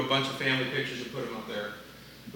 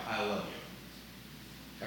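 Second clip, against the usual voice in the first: slow breathy whisper, much softer; whispered I love you; 8 semitones lower, 13 dB quieter, much slower than usual. Shown as a demonstration. Pastor showing the congregation a phrase, whispered slowly. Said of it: "say it different ways".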